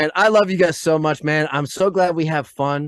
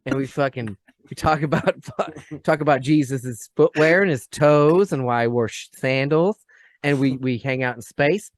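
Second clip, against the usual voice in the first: mock casual alien talker.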